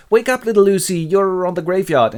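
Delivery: Mina. Acted. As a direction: rouse a sleepwalker in a high voice. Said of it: "tips her on the shoulder and goes".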